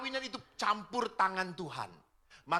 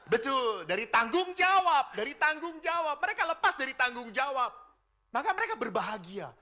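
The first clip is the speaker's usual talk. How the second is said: higher, louder on tanggung jawab; forceful preaching; 8 semitones higher, 7 dB louder than usual. Acted. Preacher to fathers in congregation, loud high emphasis. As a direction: hammer the point home. Preacher driving point home.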